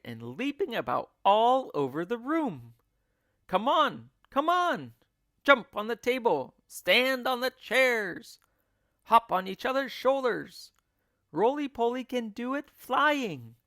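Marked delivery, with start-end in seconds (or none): 3.5-13.5 high, loud, excited cries to get moving; frantic leader urging the animals on; frenzied urging. A narrator's reading. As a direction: whip them into action, leaping about.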